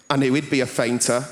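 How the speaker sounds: bellowing Linda. Retold or imitated. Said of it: "Linda's bellowing voice".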